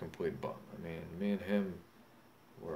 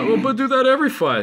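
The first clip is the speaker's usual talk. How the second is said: much higher and louder, yelling it out; furious shout; 20 dB louder than usual. Real, not acted. Drunk boxer yells at critics who doubt his knockouts, furious shout. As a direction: blast it at the critics at full volume.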